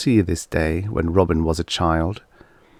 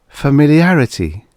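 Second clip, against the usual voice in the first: shocked realization; 8 semitones higher, 6 dB louder than usual. A narrator's reading.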